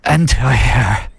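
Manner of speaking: slow German-tinged echo; Herzog imitation. Host copying Herzog's slow German-accented voiceover. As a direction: drawl it like Herzog. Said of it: "He really says every word".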